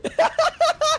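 sharp high laugh; high burst of laughter. Real, not acted. Witness laughs.

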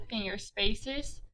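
finger spaces stretched slowly and softly; soft, slow classroom cue; slow reminder. Shown as a demonstration. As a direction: pause like a teacher cueing spacing. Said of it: "teacher demonstrates spacing".

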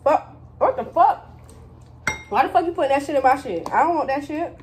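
outraged yelling. Real, not acted. Hot sauce put in his bowl.

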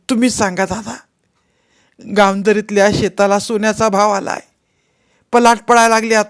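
put-on high-pitched, pleading old woman's voice; an aggrieved old widow begging for help, voice pitched high; old village woman. Old woman's long complaint. (उंच आवाजातली तक्रार करणारी म्हातारी)

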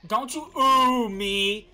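scolding. Acted. Scolding a game character.

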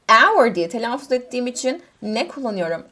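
ordinary delivery

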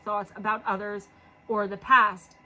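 slightly hoarse, losing voice; tired, worn-out hoarse voice. Real, not acted. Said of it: "Losing my voice from reading all day".

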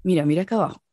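lightly voiced educated doctor, a little low; hint at a refined man's calm voice; gynecologist's nice voice. Former patient imitating her gynecologist during a scan, lightly put-on voice. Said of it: "¿Sabe quién tenía voz chévere?".

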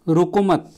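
रोको मत joined as one unit; no pause inside. Shown as a demonstration. Teacher showing the second comma placement, रोको मत said together. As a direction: run रोको straight into मत, then stop. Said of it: "के बाद अगर कामा लगा दूँ".

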